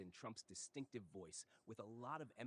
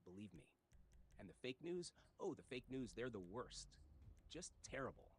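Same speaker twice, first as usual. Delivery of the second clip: Trump impression. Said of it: "phonetic impersonation of Trump's speech".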